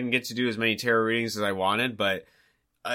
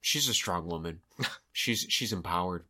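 mock drunk lady; 6 semitones lower, 7 dB quieter than usual. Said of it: "she's like".

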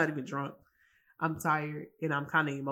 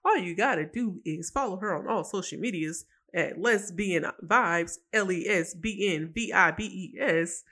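upbeat radio ad read, spelling out the handle. Pretend. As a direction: sell it like a podcast promo spot. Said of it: "back to my ad voice".

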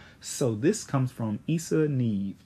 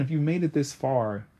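ordinary delivery

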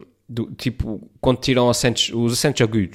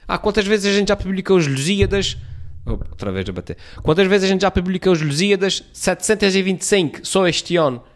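mock publisher voice; 8 semitones higher than usual. Mocking the publishers' voice.

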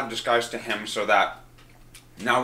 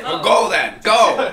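loud, high impatient urging; urgent shout; 10 semitones higher, 7 dB louder, slower than usual. Real, not acted. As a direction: hurry them on. Urging player loudly.

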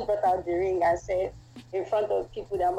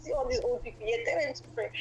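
quick, slightly raised protest; retold arguing; 2 semitones higher, 4 dB quieter, much faster than usual. Girlfriend retelling an argument with boyfriend over praying, hurried protest. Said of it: "we both were arguing".

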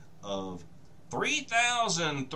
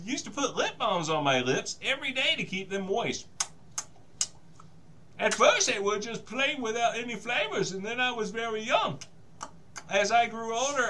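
bad movie dubbing; 4 semitones higher than usual. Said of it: "I'm not gonna do the annoying thing anymore".

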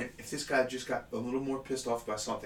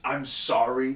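a louder, firmer I'm sorry; 6 dB louder, slower than usual. Retold or imitated. Retelling what he said to her face, louder. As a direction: say sorry with a push. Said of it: "did I say I s".

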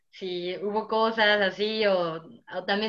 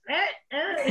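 high, soft squeaky bedspring noise; little high squeaks, softly; imitated bedsprings; 4 semitones higher, 4 dB quieter than usual. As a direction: mimic creaky springs under you. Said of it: "y los resortes".

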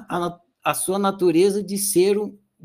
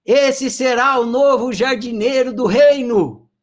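king's proclamation; 3 semitones higher, 4 dB louder than usual. Retold or imitated. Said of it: "abraçou ele e falou assim".

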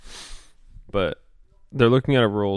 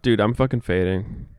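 tired, hungover voice. Real, not acted. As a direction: drag it out like a hungover headache. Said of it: "I'm so hungover still".

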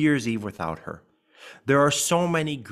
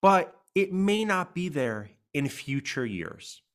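may leaned on, slow and a bit higher; stress on may; 4 semitones higher, slower than usual. Shown as a demonstration. Host warning listeners support may fade, stress on may. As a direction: land hard on the word may. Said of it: "I'm also gonna stress the word may".

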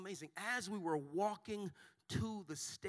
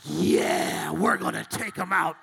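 going along; 15 dB louder, slower than usual. Retold or imitated. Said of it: "And I'm like".

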